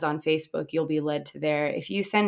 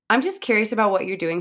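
friendly and polite; 4 semitones higher, 4 dB louder, faster than usual. Retold or imitated. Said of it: "she's very friendly and very polite".

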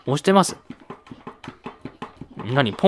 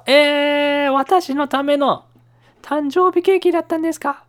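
surprised; 11 semitones higher, 4 dB louder, slower than usual. Pretend. Surprise at birthday cake gift.

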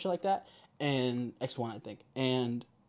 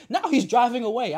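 high, loud eyewitness commentary; acted urgent running report; play-by-play; 9 semitones higher, 7 dB louder than usual. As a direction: call out the action to the operator. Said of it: "giving the police officer on the thing a play-by-play".

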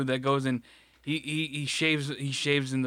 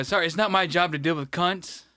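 imagined retort; 3 semitones higher than usual. Retold or imitated. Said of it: "the shit I would have said".

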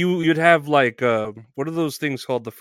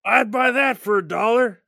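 higher put-on soundboard voice; RoboCop clip; 9 semitones higher than usual. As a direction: chirp it like the movie clip. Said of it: "that's RoboCop".

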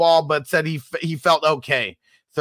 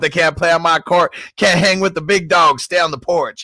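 loud fast street hustling; 4 dB louder than usual. Retold or imitated. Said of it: "Why they gotta say it like Hustler".

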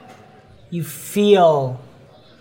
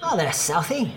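put-on lightly accented young wild elf; teasing elf boy in a northern accent; boyish northern elf accent; 3 semitones higher, 3 dB quieter than usual. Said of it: "boyish voice behind you".

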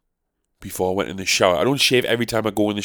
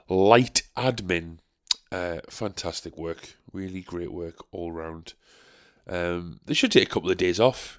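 sarcastic praise. Acted. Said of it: "sarcasm aside".

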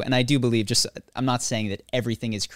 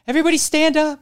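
high, loud group-leader yell; rally a crowd at full voice; shouted command; 7 dB louder, faster than usual. Retold or imitated. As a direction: order the whole room up, loudly. Group leader's barked command, retold.

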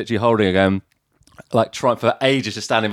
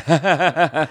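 put-on ha-ha laughter, higher; imitated forced laugh; 6 semitones higher than usual. Mate at the front of the speech, mimicked forced laughing. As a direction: fake an audience laugh. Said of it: "my mate who had to be at the front was just like".

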